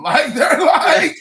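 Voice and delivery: slow high laughter over the words; laughing too hard to finish. Real, not acted. Laughing along with friends at the story.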